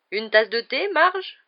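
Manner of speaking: loud, rising offer; lifted, eager host's question; jovial host. A narrator's reading. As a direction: offer tea with hearty cheer. Jovial uncle offering tea.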